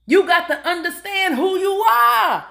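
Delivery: preaching shout. Real, not acted. Motivational preaching, laughing shout.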